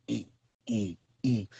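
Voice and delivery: low, soft mock grunts; quiet put-on "mm" moans; imitated lover's moans. Mousy back there in bed, imitated with soft low moans. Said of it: "And he back there".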